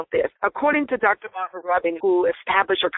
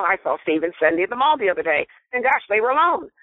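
quick, light chatty telling with a lift on gosh; innocent gossip. Shown as a demonstration. Demonstrating an innocent tone of the same sentence to a listener, light and quick. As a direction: rattle it off like harmless news, then a bright "gosh". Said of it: "So if I said to you".

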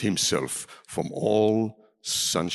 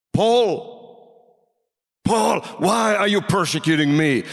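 crying out; 6 semitones higher than usual. Retold or imitated. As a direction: call out sharply, high and forceful. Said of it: "cried out the voice in the blinding light".

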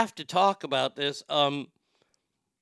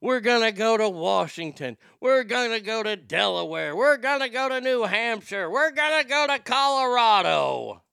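mock rally cry, rising higher and louder; building campaign yell; 6 semitones higher, 5 dB louder than usual. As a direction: shout the states like a fired-up candidate, climbing each time. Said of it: "and he's like".

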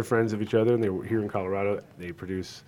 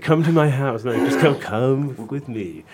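loud, pitched-up mock Rhode Island accent; 5 semitones higher, 8 dB louder, slower than usual. Host imitates his friend inviting him along, hammed-up Rhode Island accent. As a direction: ham up a Rhode Islander, dragging the last invitation. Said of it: "that Rhode Island accent is like".

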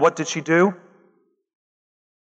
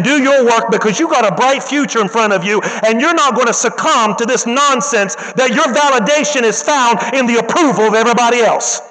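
louder, preachy, urgent exhortation; rousing pep talk; 4 semitones higher, 3 dB louder than usual. Retold or imitated. Teacher rallying the weeping girl, loud and urgent. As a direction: lift her up like a preacher.

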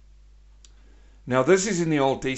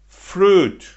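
shouted answer; 7 semitones higher, 10 dB louder than usual. Acted. Preacher answers his own question with a loud shout. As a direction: belt out fruit high and loud.

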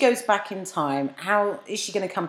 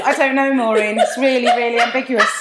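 mock confused reply; 4 semitones higher, 5 dB louder than usual. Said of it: "imitated friend replies".

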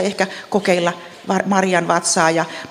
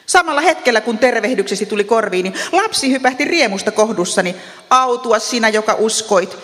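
joyful proclamation; 3 semitones higher than usual. Acted. Elisabet blesses Maria on her arrival, mildly exclaimed proclamation. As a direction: proclaim the blessing without really shouting. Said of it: "hän huusi kovalla äänellä ja sanoi".

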